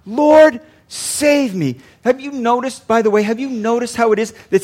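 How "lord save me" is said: mild retold cry for help. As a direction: call out to the Lord, louder on "Lord". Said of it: "he cried out".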